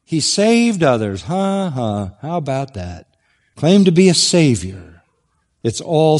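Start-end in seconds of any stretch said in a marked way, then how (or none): 0.0-2.1 a hint of a mocking chuckle; sarcastic echo. Preacher echoing the taunt, dryly sarcastic. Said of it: "That's pure sarcasm".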